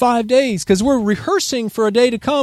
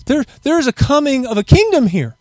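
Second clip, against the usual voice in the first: proclaiming to the people; 5 semitones higher than usual. Pretend. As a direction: call it out like a herald announcing the kingdom. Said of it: "we've gotta get the word out to those and say".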